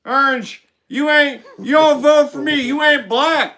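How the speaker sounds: lightly voiced Biden bragging; mock Biden boasting; Biden impression. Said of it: "It's my Biden wig".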